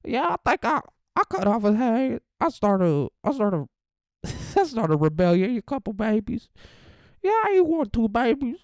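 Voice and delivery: hammed-up African accent as a wild character; mock African Beetlejuice. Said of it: "Should I try to do African Beetlejuice?".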